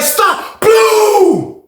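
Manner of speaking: high mock female officer shouting stop; imitated high woman's voice yelling at inmates to stop; female guard yelling. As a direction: play the lady guard ordering them to stop. Lady officer yelling again.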